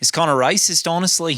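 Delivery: hammed-up Aussie accent; Australian accent. Australian commenting on Richard's talk, mock accent. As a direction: play an Australian with broad vowels. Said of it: "this is an Australian".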